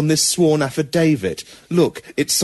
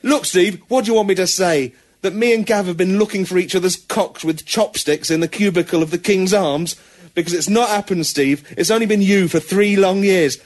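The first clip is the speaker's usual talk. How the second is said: pleading lover bear; 3 semitones higher than usual. Acted.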